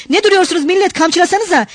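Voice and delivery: high, goading call; excited heckler calling out. A narrator's reading. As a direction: urge the crowd to join in. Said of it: "Kalabalık arasından sesler yükseliyordu".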